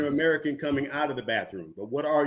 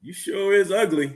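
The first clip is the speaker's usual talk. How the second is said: parrot voice; 6 semitones higher, slower than usual. Acted. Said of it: "the parrot looks at her and says".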